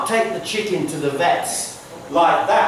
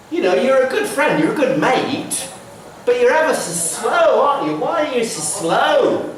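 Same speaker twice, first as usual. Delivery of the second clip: lightly voiced chicken, higher pitched; chirpy friendly ribbing, a bit faster; teasing chicken; 6 semitones higher than usual. Chicken teases slow tortoise.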